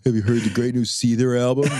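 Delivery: low, earnest emo fan; a hint of a gloomy emo kid. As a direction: ask it like a proud mopey fan.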